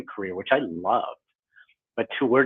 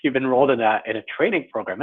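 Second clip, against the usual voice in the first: sarcastic; 3 semitones higher than usual. Retold or imitated. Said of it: "I'm being a little sarcastic here".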